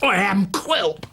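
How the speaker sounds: slow, hissing whisper of a villain; villain Quilp. Acted. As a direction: breathe it out like a sinister dwarf. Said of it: "a different voice for each character".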